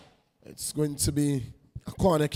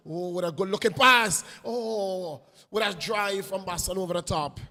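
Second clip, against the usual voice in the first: excited call; 4 semitones higher than usual. Real, not acted. Commentator calling Boston's pass, higher and excited. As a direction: lift with the pass.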